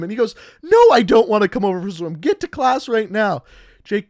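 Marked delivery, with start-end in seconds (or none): 0.6-3.4 loud, quick refusal slowing into a firm order; mock exasperated teacher. Teacher orders Jake to class, mock exasperation. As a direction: imitate a fed-up teacher, mildly cross.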